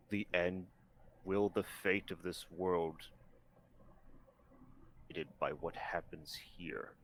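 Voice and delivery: low, hushed lizard voice. Acted. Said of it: "I gotta do the lizard voice".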